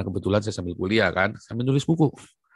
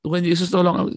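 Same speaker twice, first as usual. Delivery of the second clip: loud, high cry for help; retold desperate shout for help; imitating a cry; 8 semitones higher, 8 dB louder, faster than usual. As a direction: mimic Ibu Tina calling out. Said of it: "Spontan itu ya".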